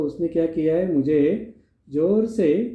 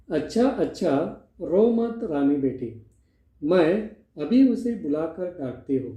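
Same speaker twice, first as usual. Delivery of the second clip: lovingly soothing. Acted. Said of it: "उसको प्यार से कहती है".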